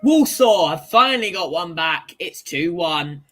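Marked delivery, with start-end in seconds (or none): 0.0-2.1 excited announcement. Real, not acted. Excited at a goal.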